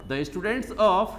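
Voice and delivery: drawn out dictation; slow dictation. Shown as a demonstration. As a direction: dictate slowly for notes. Teacher dictating corrected sentence.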